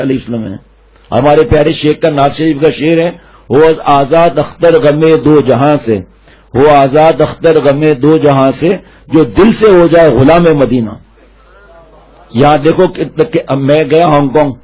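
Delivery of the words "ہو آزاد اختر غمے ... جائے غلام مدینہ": poem recitation. Acted. Recites the shaykh's naat verse.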